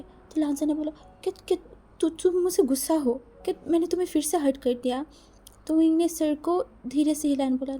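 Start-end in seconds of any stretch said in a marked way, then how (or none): 1.2-5.0 tag frightened stammer. Acted. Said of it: "लांजन एक डरा हुआ फेस बना के".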